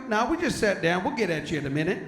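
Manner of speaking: light imitated Southern twang; mildly put-on Southern accent; picked-up Southern accent. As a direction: answer in a borrowed Southern accent. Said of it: "it's a little contagious".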